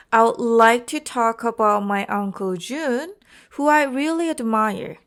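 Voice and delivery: smoothly connected rhythm into "really admire"; demonstrated rhythm. Shown as a demonstration. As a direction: rise and fall smoothly through "like" to "Jun". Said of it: "rise and falls are smoothly connected".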